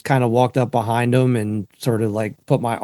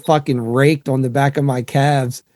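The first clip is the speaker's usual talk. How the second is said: loud, raised mock rant; dad ranting; 4 semitones higher, 5 dB louder than usual. Retelling dad's rooster attack story, loud. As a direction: bellow the complaint like dad. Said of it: "He's like".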